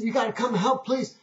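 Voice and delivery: put-on high-pitched pleading child; upset little boy. Boy begging the zookeeper for help, upset. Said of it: "the little boy just runs up".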